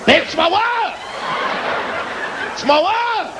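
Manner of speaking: high, frantic yelp; high pitched panicked yell; mock panicked cry. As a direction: play a startled victim calling out. White folks getting slapped, crying out.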